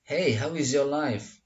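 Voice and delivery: slow, linked "how is your life" after "Hey"; linked greeting. Shown as a demonstration. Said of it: "Nah, jadi disatukan".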